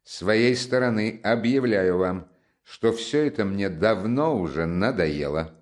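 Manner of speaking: steady accusation, each word distinct; loud and distinct. Acted. Raskolnikov confronts Porfiry, loud and distinct. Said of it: "громко и отчётливо".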